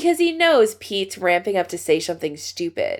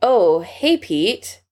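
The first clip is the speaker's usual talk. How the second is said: disappointed; much slower than usual. Acted. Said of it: "He sounds disappointed".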